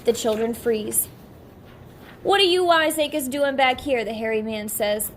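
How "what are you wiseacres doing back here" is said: grinning. Acted.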